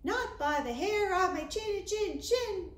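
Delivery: high squeaky little pig voice. Acted. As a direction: pipe up like a tiny scared pig. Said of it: "answered the little pig".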